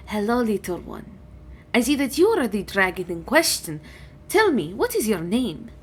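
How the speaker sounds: lightly voiced dragon with lilting greeting; dragon, kindly. Dragon greets Lilith and asks her name, mildly kindly. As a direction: welcome the little one as a stately dragon.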